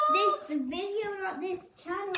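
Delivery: "this" and "not" punched high; stress on this and not. Shown as a demonstration. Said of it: "This is the only channel".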